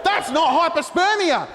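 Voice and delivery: hammed-up offended forum rant; mock indignant commenter. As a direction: play a miffed bloke defending his dad's condition. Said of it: "he goes".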